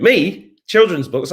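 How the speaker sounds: high, surprised questioning; taken aback by the very idea; incredulous. Real, not acted. Streamer answering a viewer's children's book suggestion, incredulous.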